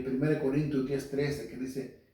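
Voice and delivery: ordinary talk, nothing marked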